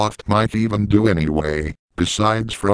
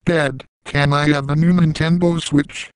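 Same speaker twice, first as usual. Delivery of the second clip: put-on kid asking; 7 semitones higher than usual. Child asking dad for gift.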